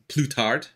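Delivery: "plus tard" said slowly with a French accent; careful French "plus tard"; French pronunciation. Shown as a demonstration. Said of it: "to say that something is going to happen later".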